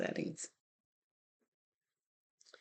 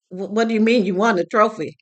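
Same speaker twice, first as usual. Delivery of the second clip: louder, startled disbelief; a dad caught off guard by happy news; retold surprise; 4 semitones higher, 7 dB louder than usual. Father hearing his son won, louder retold surprise.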